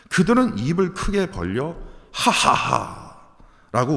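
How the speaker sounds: slow jeering "하하하"; lightly acted sneering laugh; mock mocking laugh. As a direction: imitate the enemies' scornful laughter. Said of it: "웃으면서".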